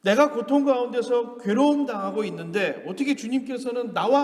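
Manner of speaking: acted psalmist's indignant lament; irreverent complaint. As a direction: pour out grievances to God. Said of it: "좀 불경스러운 소리로 하나님께 지금 불만을 쏟아내는 거예요".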